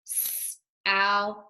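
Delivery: south drawn out slowly, the sounds stretched apart; stretched-out blending. Shown as a demonstration. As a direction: slowly stretch out South before saying it whole. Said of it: "Let's read this word together".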